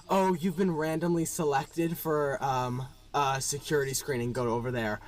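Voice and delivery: low-pitched routine instruction; understated imitation of an official; security guard. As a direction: rattle off official procedure without interest. Voices guard's bored routine instruction.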